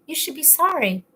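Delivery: stern scolding reading. Shown as a demonstration. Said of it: "I wouldn't read it like".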